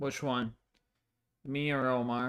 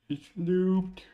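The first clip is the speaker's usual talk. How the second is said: excited; 7 semitones higher, 6 dB louder than usual. Real, not acted. Announcing loop fixed after sigh.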